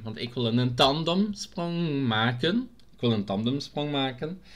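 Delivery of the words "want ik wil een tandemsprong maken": langgerekt. Pretend. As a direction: stretch "tandemsprong maken" and lift the end. Says it drawn out, then repeats. ("tandemsprong maken" uitgerekt, stijgend op het einde)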